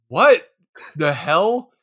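WHAT bursts out high and loud; mock incredulous. Reacting to an insane movie scene, incredulous outburst. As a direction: blurt it in disbelief, pausing after "what".

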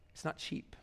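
hushed and intent; whispered emphasis. Real, not acted. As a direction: whisper it, not cheap. Preacher drops to a whisper.

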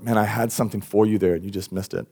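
subdued, mildly disappointed delivery; sighing letdown. Acted. God to one who just missed it, sighing letdown. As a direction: say it with gentle regret, trailing downward. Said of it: "He sighs and goes like".

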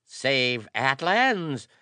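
high, slow, loud incredulity; fierce questioning. A narrator's reading. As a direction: question it sharply, drawing the words out. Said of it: "Fierce questioning was in his somber, sunken eyes".

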